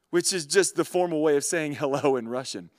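ordinary delivery

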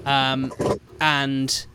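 slow, ominous storyteller voice; scene-setting narration. Acted. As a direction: build the dread slowly. Game master's scene setting.

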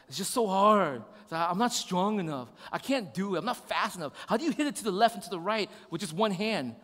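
mock upset kid complaining; lightly voiced frustrated son, no real tears; frustrated child imitation. Son whining to dad about handball, mildly frustrated. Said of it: "He's frustrated. He's like, he sits down, he starts crying".

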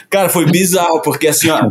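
usual speaking voice

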